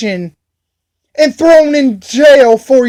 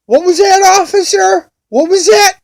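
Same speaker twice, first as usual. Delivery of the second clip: higher, teasing "what was that"; mocking taunt; 6 semitones higher than usual. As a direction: needle the cop, pitched up and sarcastic. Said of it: "I'm like".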